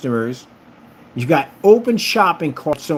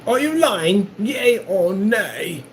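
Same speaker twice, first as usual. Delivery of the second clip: hammed-up gentleman's challenge, pitched high with a hushed middle; mock old-fashioned gentleman demanding satisfaction; old-time duelist; 5 semitones higher than usual. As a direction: play a pompous duelist calling out a liar. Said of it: "I saw that nonsense like".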